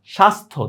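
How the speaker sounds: স্বাস্থ্য as "shastho"; no y in স্বাস্থ্য, ending on plain "tho"; silent j-phala. Shown as a demonstration. Teacher illustrates for students, স্বাস্থ্য with silent y. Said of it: "জফলা কোনো উচ্চারণই নাই".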